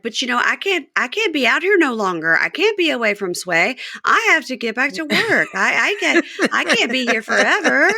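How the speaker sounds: mock-plead like a homesick girlfriend; voicing Joy. Podcaster imitating Joy pleading to go home. S0 voices Joy in car recap.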